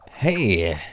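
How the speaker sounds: high goofy yippee and hi-ya; playful high-pitched hi-ya; silly squeal. Pretend. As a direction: squeak out the greetings like a kid. Goofy greeting noises.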